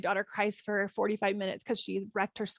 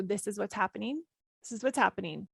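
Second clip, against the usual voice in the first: accepting. Shown as a demonstration.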